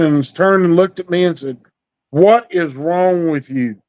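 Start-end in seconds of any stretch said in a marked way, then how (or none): 2.1-3.8 a slow, lightly voiced concerned father; fatherly tone. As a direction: ask it like a dad who wants answers, slowly. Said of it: "In that fatherly tone".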